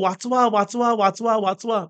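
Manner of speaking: understated panicked dog calling for rescue; mock cry for help. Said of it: "तो ओरडायला लागतो". (घाबरून मदतीसाठी हाकांचा हलका अभिनय)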